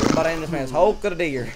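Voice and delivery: fast, loud, laughing mock echo. Real, not acted. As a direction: repeat it while cracking up.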